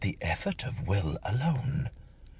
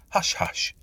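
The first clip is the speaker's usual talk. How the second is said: a breathy, higher hush to herself; 11 semitones higher than usual. A narrator's reading. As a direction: shush her own thoughts, half under breath. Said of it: "she said to herself".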